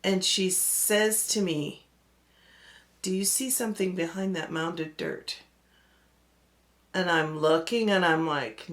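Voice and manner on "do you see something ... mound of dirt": hushed question. Retold or imitated. Scared friend's quoted question.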